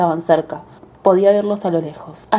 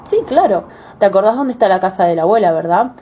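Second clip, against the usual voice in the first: put-on little girl voice. Girl voiced in fairy tale.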